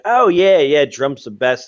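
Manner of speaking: hammed-up smug Trump supporter; mock fan gushing. Mocking Trump fans, a hammed-up smug gush. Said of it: "they might be saying that".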